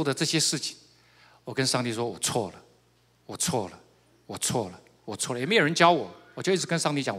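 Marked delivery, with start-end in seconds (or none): 2.0-5.4 low, soft, repeated admission of guilt; retold confession. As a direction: confess quietly, as if alone before God.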